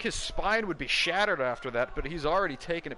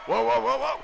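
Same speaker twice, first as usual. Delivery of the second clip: excited whoa; 10 semitones higher, 7 dB louder than usual. Real, not acted. Commentator reacts to big move.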